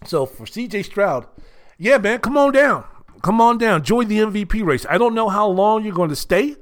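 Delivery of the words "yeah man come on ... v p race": loud, high come-on-down shout; game-show call. Pretend. Host calling C J Stroud onto the stage, loud and high.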